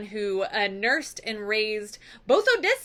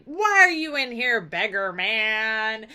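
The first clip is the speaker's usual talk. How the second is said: mad servant; 3 dB louder than usual. Retold or imitated. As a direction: scold like a hammed-up angry servant. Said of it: "she is mad that Odysseus is in this hall".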